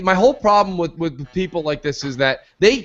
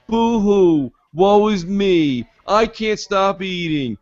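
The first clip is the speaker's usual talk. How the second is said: slow, mocking boo-hoo lament; mock whining; 3 semitones higher, much slower than usual. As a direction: drag it out like a whiny crybaby. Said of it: "they start to go".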